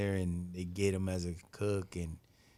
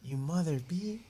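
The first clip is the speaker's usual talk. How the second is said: retold cussing; 8 semitones higher, 4 dB louder than usual. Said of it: "She goes".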